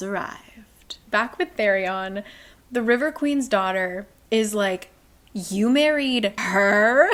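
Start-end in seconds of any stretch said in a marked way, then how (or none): 5.3-7.1 shocked question. Retold or imitated. Daughter shocked at Therion's marriage.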